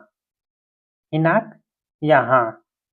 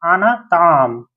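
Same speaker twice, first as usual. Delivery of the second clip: slow clear demo; much slower than usual. Shown as a demonstration. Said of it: "साफ लफ्जों में अगर बोल दीजिए".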